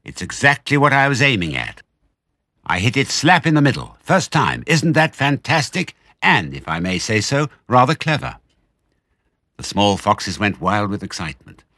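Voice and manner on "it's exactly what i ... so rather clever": high-pitched, pleased boasting; triumphant cry. A narrator's reading. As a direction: crow proudly over your own success. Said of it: "cried Mister Fox".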